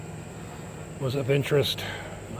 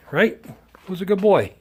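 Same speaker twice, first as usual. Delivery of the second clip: high sing-song praise for a pet; 6 semitones higher, 4 dB louder than usual. Real, not acted. Praising the dog.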